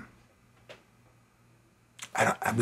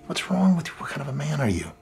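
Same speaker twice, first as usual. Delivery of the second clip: higher-pitched questions rising out of hush; anguished self-reproach; 4 semitones higher than usual. Acted. Man berating himself over failing his family, anguished. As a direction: scold yourself, pitch lifting with distress. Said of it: "I'm just so mad at myself".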